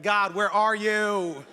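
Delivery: drawn-out exasperated plea to God; hammed-up frustrated whine; mock frustration. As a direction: complain to heaven, stretching the words. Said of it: "I'm already annoyed and frustrated".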